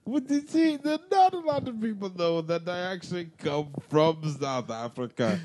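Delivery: put-on South African accent, earnestly apologetic. Owning up to his co-host about secret roots, South African accent. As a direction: explain yourself in a lilting South African accent. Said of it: "When did you become South African?".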